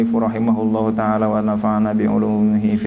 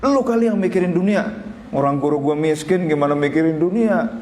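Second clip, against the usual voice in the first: higher, huffy muttered comeback; indignant inner retort; 6 semitones higher than usual. Retold or imitated. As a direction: rattle off an offended retort in your head. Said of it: "dalam hati begitu".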